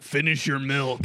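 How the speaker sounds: slow, drawn-out dad order; stern dad. Retold or imitated. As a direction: imitate a dad giving an order. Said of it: "one of those dads that would be like".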